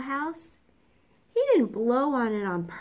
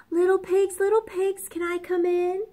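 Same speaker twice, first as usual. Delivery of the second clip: high, sly wolf calling at the door; a sweet, wheedling wolf at the door; 9 semitones higher than usual. Acted. Wolf asks the pig to let him in, high and sly.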